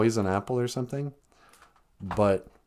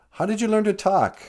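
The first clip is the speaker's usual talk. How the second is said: higher-pitched amazed question; acted surprise; 12 semitones higher, 4 dB louder than usual. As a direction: play Eve taken aback. Eve questions the talking snake.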